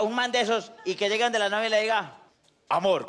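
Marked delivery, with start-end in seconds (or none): 2.7-3.1 low, heavy "Amor" from a muscle man; mock deep macho growl. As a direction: drop the voice for a manly "Amor". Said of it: "con esa voz más grave que un tiro".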